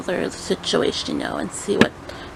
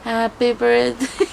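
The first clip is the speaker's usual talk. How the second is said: awkward happy birthday; 3 semitones higher, slower than usual. Shown as a demonstration. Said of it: "I'm acting this out for you guys".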